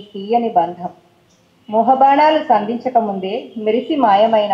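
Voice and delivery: flowing, unhurried lyrical reading; romantic poem recital. Acted. Poet reading her love poem on colours to the audience, lyrical recital. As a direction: read it like a love letter in verse.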